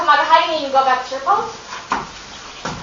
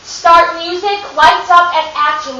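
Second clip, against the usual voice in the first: louder, announced cue call; stage manager cue; 4 semitones higher, 5 dB louder, slower than usual. Shown as a demonstration. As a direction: call it out to start the show. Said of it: "what the cue is exactly".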